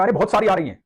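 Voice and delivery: put-on light cheerful boy; boy's voice. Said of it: "तो बच्चे ने कहा".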